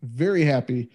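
hiccuping between words; with hiccups. Real, not acted. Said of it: "Sorry, I got the fucking hiccups".

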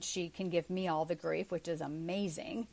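deadpan sarcasm, low and soft; sarcastic. Real, not acted. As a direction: say it drily, as if you meant the praise. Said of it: "That was sarcasm".

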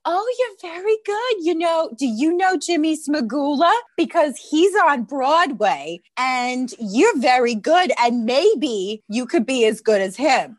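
high, gushing adult voice; gushing townsperson. Retold or imitated. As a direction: play an impressed local praising her. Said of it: "People would be like".

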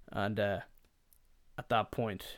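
normal talking voice

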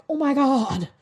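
high, loud gasped oh my God; astonished exclamation; amazed. Retold or imitated. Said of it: "And I'm like".

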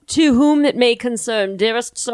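put-on grand letter-writing voice; mock fancy letter. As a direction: read it out like an ornate letter. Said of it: "fancy cursive that was like".

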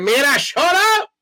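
loud, high, drawn-out Latina mother yell; mother's imagined accent. Retold or imitated. Mother silencing child during soap opera, loud Latina-accented yell. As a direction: shout it as an exasperated Latina mom with a thick accent. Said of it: "she didn't have an accent, but I just, I just imagine her that way".

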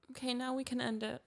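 soft, high, choked-up wrap-up; close to tears. Real, not acted. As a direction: quietly give up holding back tears. Close to crying, wrapping up.

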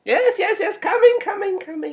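loud, high calls of coming; calling out. Acted. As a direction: call out to the door. Shopkeeper calling to the door.

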